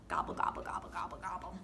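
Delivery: whispered turkey gobbles; whispering. Acted.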